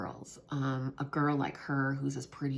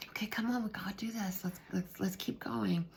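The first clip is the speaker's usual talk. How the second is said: whispered coaxing; 5 semitones higher, 6 dB quieter than usual. Retold or imitated. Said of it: "sometimes I'd be like".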